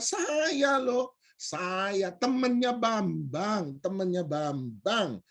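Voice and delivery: slow, stretched-out imitation of an insistent acquaintance; insistent reminder. Stranger reminding him of their mutual friend, insistent. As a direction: draw out each name as a reminder.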